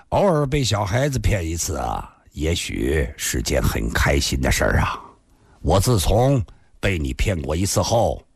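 lightly voiced, easygoing man; mostly low character voice, forgiving; easygoing Li Xunhuan.

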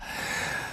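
quiet, short acted chuckle; low chuckle. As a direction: chuckle softly before answering. Amused lover answers in story.

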